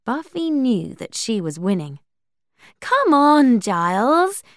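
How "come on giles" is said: loud, high taunting call to an opponent; loud challenge, lifting at the end; goading call. A narrator's reading. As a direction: call out to urge them on, pitched high. Buffy goads tired Giles to play.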